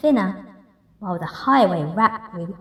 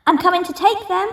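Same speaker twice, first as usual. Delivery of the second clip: high, louder eager yell; greedy yell; 9 semitones higher, 4 dB louder, faster than usual. Acted. Rat yelling into the cave as he rushes in. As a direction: shout it, eyes on the prize. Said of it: "the rat thief yelled".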